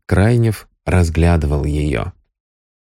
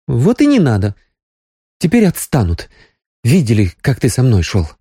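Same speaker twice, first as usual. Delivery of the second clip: higher Sonya voice, lightly playful; playful young woman; 5 semitones higher than usual. A narrator's reading. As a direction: reassure him playfully. Sonya teasing.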